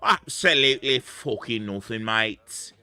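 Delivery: lightly put-on British accent; a quick jokey British accent; mock British accent. Streamer mocks the game in a British accent. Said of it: "In my best British fucking accent".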